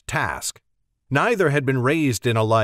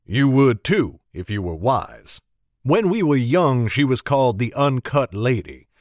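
storytelling Alburn. Acted. Alburn telling of the Uncut Lady, proud. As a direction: speak with proud reverence. Alburn praises Mag's fame.

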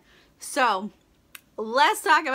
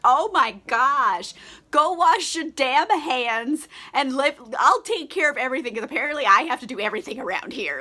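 exasperated, upset wife; 2 semitones higher, 4 dB louder than usual. Retold or imitated. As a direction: imitate a fed-up wife taking over. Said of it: "just kind of upset about it".

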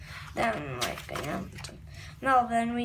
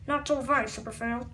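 low villain taunt; 6 semitones lower, 4 dB quieter than usual. Acted. Villain taunting Super Fail, low and sneering. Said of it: "I'm just doing the voices".

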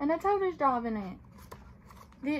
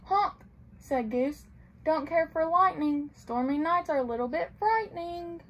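gentle storybook read-aloud; reading to children; 3 semitones higher than usual. A narrator's reading. Librarian reading a picture book to children, gently.

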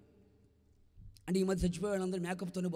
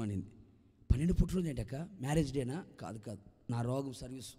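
weary lament; 4 semitones lower than usual. Acted. Sick woman tells her woes.

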